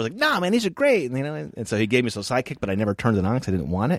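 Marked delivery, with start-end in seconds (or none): 0.2-1.1 pitched way up, mocking Kevin; high squeaky mimicry. Quoting Kevin insisting.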